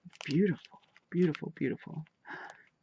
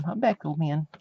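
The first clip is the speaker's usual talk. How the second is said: calling the cat; 2 semitones higher, 6 dB louder than usual. Real, not acted. Calling to her old cat.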